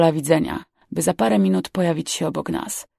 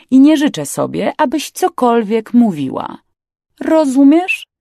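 louder, rising to a high question; stern warning; 7 semitones higher, 6 dB louder than usual. Acted. Captain silencing the stowaway, sternly insistent. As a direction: lay down the rule, pressing the final word.

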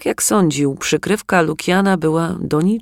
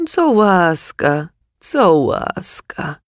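sobbing; 2 semitones higher, much slower than usual. Acted. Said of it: "załkał".

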